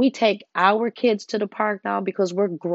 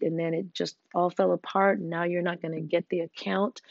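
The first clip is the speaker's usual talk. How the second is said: gentle self-talk. Pretend. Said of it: "and saying".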